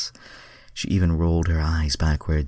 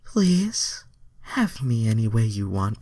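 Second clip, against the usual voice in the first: starts high, then settles into a lighter pleading tone; mock eager plea, high at first; pleading Starfire voice; 6 semitones higher than usual. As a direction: beg in a high, hammed-up voice. Reader voices Starfire's dialogue.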